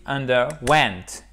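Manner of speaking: "underwent" slowly, light stress on "un", heavy on "went"; "underwent" drawn out, small accent first, big accent on "went"; main stress on WENT. Shown as a demonstration. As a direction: lean hard on the last syllable of "underwent". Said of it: "et un gros accent tonique ici".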